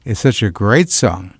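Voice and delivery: smooth radio host patter. Acted. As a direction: talk to the listeners like a weekend DJ. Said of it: "with my regular radio voice".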